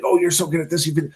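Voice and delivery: mildly mock a frustrated student's complaint; frustrated students. Students complaining to their coding teacher, mildly frustrated. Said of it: "always so frustrated at the beginning".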